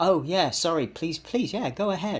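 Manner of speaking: friendly, pleasant, welcoming tone. Demonstrating the first of two ways to respond, in a welcoming, pleasant tone. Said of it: "do you hear the difference? The first one".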